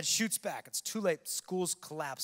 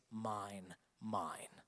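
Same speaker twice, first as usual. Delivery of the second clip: low, hushed "mine"; quoted claim; 7 semitones lower, 7 dB quieter than usual. Retold or imitated. Quoting the face saying "mine.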